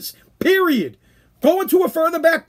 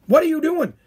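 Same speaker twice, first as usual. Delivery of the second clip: "What" hit higher and harder, falling at the end; louder retold yell; 6 semitones higher than usual. Host repeating the challenge to the cracker eater, a louder mock yell. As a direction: press him harder the second time. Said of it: "I was yelling at this guy".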